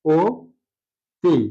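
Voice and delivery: অতি drawn out very slowly, rounded ওতি sound; slow demo অতি. Shown as a demonstration. Teacher to students, slow demo of অতি. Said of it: "অর্থাৎ দেখালে".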